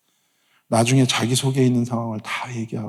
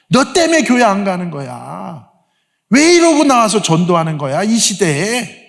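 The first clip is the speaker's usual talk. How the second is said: imitating angry girls; 7 semitones higher, 3 dB louder than usual. Girls angrily scold the pastor.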